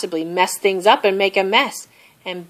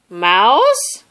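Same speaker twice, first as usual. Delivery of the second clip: high, nervous call; scared call; 5 semitones higher, 6 dB louder than usual. A narrator's reading. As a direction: call out into the dark.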